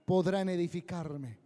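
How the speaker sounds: slow, solemn divine questioning; God asking humanity with gravity. Acted. Voz de Dios preguntando. (voz solemne de Dios)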